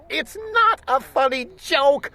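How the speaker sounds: high, rising distress; panicked. A narrator's reading. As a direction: plead in growing alarm. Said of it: "my little sister screamed".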